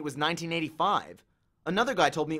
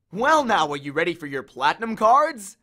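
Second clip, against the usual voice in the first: louder, showy salesman; oily sales pitch; smooth bellhop; 8 dB louder than usual. A narrator's reading. The Lotus Bellhop offering platinum cards.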